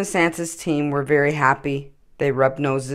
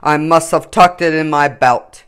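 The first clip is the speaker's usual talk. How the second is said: much higher, louder, laughing Santa; jolly Santa; 7 semitones higher, 10 dB louder than usual. A narrator's reading. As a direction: burst out merrily. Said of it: "suddenly jolly again".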